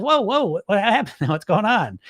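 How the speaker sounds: lightly voiced, calm and concerned coach; a hint of a caring coach; kind inner coach. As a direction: gently check in on what happened. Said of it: "The coach voice comes and says".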